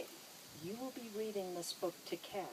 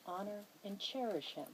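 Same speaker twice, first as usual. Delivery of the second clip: formal vow reading. Acted. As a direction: read each vow clause with weight, like an officiant. Officiant reads the wedding vows.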